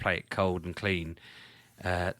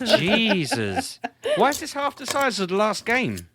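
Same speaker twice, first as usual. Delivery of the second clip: shocked; 12 semitones higher, 6 dB louder than usual. Real, not acted. Shocked by small file size.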